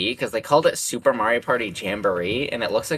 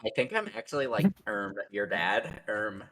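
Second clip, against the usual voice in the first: Ben as Darth Vader; 2 semitones higher than usual. Pretend. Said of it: "that's my impression of Ben as Darth Vader".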